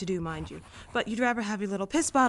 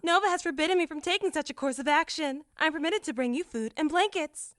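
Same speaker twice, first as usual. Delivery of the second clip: high, even, precise machine voice; lightly robotic assistant voice; android; 8 semitones higher than usual. Acted. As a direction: speak like a polite ship android. Android character voice.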